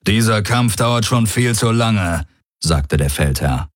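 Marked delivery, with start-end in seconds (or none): 0.1-2.3 field commander. Acted.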